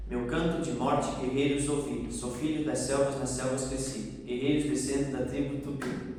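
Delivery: steady rhythmic verse reading; poem recitation. Shown as a demonstration. Teacher recites so a student can clap the beat, rhythmic. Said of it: "conforme eu for recitando".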